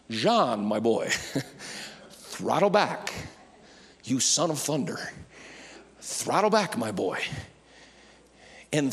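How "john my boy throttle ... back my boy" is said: soft, low, amused restraint; indulgent, slowed-down reproof with a chuckle; calming mentor. Acted. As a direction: gently rein in a hot-headed young friend. Acts Jesus gently reining in John.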